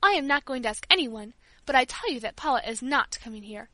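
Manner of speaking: loud, rising fury; furious invalid shouting down; angry outburst. Acted.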